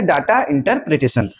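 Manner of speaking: "डेटा" stressed, slow and deliberate; slow, spelled-out repeat. Shown as a demonstration. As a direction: repeat it slowly so students note it. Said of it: "क्या बोला जाता है?". (धीरे और ज़ोर देकर "डेटा इंटरप्रिटेशन")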